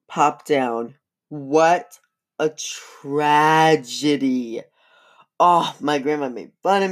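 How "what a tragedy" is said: drawn out, slow mock lament; mock tragedy. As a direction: stretch "tragedy" out like a hammed-up soap star. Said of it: "mock lament over own blunder".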